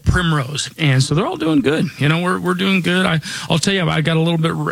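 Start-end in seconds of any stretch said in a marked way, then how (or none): 0.8-3.1 hoarse, raspy voice; talking through a rough raspy throat. Real, not acted. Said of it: "of a raspy voice here".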